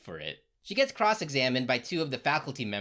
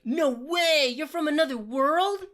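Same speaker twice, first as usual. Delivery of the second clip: much higher, louder put-on girly voice; squealing girl; 11 semitones higher, 4 dB louder than usual. Ruby meeting Jean, squealing in a high, loud put-on voice. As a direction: squeal it like an excited schoolgirl. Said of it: "Rubes is like".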